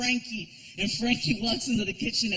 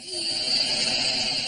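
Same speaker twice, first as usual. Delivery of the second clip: deep, drawn-out gasp of shock; low mock gasp; 10 semitones lower than usual. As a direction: gasp like it's shocking news. Stranger reacts to Chico's.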